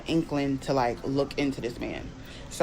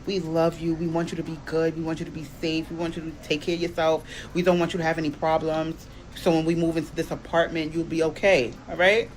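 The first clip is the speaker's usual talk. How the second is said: coaxing. Pretend. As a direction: sweet-talk him into rehab. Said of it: "using the whole family ploy".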